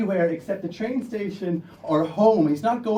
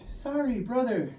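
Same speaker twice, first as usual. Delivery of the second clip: apologetic attackers; 5 semitones higher than usual. Retold or imitated. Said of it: "they say in English".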